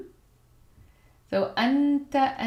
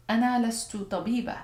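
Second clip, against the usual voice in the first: fast repeat; much faster than usual. Shown as a demonstration.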